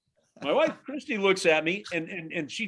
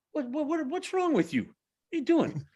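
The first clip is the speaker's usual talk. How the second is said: imitating shocked wife. Dad imitates his shocked wife.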